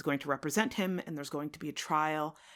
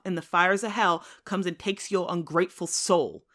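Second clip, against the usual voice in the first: louder, building bitter defiance; defiant reply; 5 dB louder than usual. Acted. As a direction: throw his broken promise back at him. Wounded Tom defies John.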